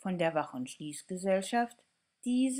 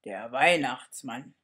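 low, rumbling Santa voice; a low growly Santa on the phone; 5 semitones lower, 4 dB louder than usual. Acted. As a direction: rumble it like Father Christmas. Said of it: "die brummt".

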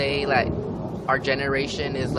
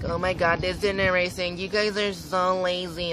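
mock nagging teacher; 6 semitones higher than usual. Teachers scolding her generation, high whiny mock voice. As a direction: parody a preachy teacher. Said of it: "they're like".

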